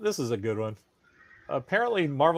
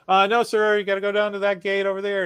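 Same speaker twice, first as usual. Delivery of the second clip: park guard; 7 semitones higher, 4 dB louder, faster than usual. Retold or imitated. Imitating traffic guard turning people away.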